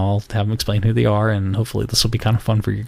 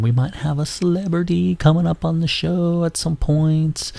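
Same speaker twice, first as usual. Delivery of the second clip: secretive whisper; 7 semitones higher than usual. Real, not acted. Teasing secret celebrity guest.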